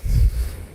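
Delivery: a warm little laugh; kind gentle laugh. Real, not acted. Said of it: "I'm not laughing at you".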